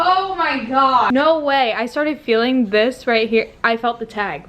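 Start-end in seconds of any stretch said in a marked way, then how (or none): 0.0-1.7 loud, high, drawn-out disbelief; shocked disbelief. Real, not acted. Vlogger discovering her shirt is backwards, shocked disbelief. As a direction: draw out a louder, higher exclamation of real shock.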